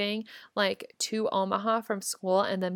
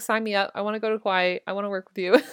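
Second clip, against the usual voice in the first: excited; 3 dB louder, faster than usual. Retold or imitated. Eager yes retold, laughing.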